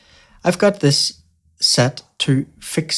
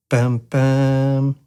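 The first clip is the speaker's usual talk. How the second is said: short then long. Shown as a demonstration. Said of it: "a word which has a short syllable".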